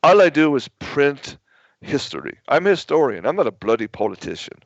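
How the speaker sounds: quoting him in a mock British accent. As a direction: lightly imitate an indignant Briton's accent. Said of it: "British accent".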